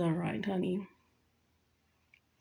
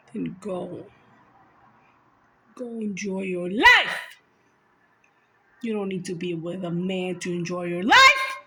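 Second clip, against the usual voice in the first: Jesus; 5 semitones lower than usual. Pretend. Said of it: "Jesus, like".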